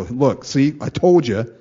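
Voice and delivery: loud, smug told-you-so; playful gloating at fellow believers; mock bragging. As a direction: gloat at the folks in jest. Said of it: "I'll go".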